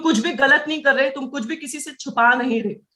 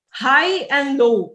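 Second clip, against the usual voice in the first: हाई raised and low dropped, both drawn out; high and low; much slower than usual. Shown as a demonstration. Trainer shows how pitch should move, high then low. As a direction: stretch हाई, then let low fall slowly. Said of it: "आवाज हाई और लो जानी चाहिए".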